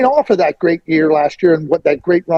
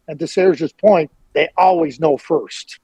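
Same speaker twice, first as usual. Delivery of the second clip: they always know first, slowed; slow down to drive home the point; slow emphasis; slower than usual. Real, not acted. Host echoes Serge's point to Rick, slow and deliberate. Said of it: "perfect example".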